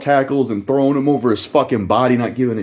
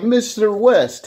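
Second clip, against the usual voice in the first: slow, much higher put-on voice; mock character voice; 10 semitones higher, much slower than usual. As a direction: drag out the name in a high mock voice. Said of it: "he'd probably be like".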